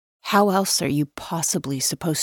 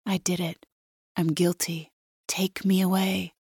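very soft, fading to near whisper; quiet, resigned mock surrender; hushed confession; 2 semitones higher, 6 dB quieter than usual. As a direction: confess it under your breath. Narrator voices an imagined confession.

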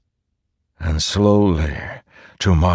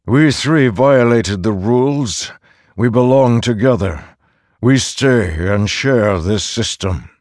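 raised, resolute command; firm insistence; 5 semitones higher than usual. Acted. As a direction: insist on staying together. Narrator insists firmly.

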